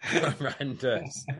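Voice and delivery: slow, laughing disbelief. Real, not acted. Co-host reacting to a crude joke, laughing. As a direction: drag it out through a laugh.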